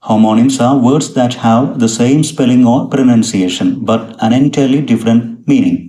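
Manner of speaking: slow, carefully spaced English reading; slow dictation reading. Shown as a demonstration. Teacher reading an English definition to students, slow and spaced. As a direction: read each English word out slowly, as if for dictation.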